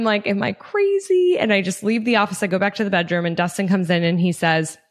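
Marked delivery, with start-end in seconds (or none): 0.3-1.4 giddy. Retold or imitated. Wondering if idea is crazy.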